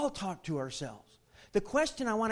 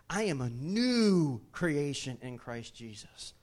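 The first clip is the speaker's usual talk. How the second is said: affirmation demo; 3 semitones lower, slower than usual. Shown as a demonstration. Preacher models saying the truth to yourself, sincere. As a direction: speak the truth over yourself slowly. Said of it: "here's how this works".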